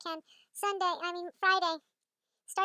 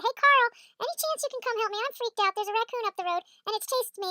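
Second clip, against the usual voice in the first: slightly raised, flustered request; urgent plea; 3 semitones higher, 3 dB louder than usual. Retold or imitated. Phoning a neighbor for help with a raccoon, flustered plea. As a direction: plead for help, a touch panicked.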